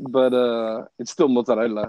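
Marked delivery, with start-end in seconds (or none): 1.3-1.9 mozzarella in an Italian accent, every vowel sounded to the final a; Italian pronunciation. Shown as a demonstration. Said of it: "Because that's the word".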